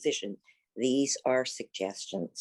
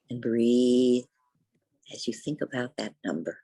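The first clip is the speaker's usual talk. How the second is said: unhurried yoga teacher's guidance, long pauses between thoughts; guided meditation; 2 semitones lower than usual. Real, not acted. Teacher guides seated students into the breath, guided meditation. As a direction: guide them gently inward, leaving space after each phrase.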